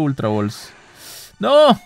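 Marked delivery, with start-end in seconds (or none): 1.4-1.8 higher, louder groaning no; despairing no. Real, not acted. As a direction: wail it in defeat. Out of Ultra Balls.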